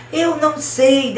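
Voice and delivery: high, drawn-out acted wail; tearful wail. A narrator's reading. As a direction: deny it slowly in a high mock-crying voice. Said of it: "chorava tanto, soluçava e dizia". (negação chorosa encenada, aguda e lenta)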